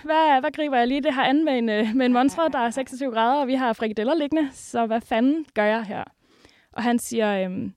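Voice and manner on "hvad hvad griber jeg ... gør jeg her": retold panic. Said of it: "ringer lidt panisk og siger".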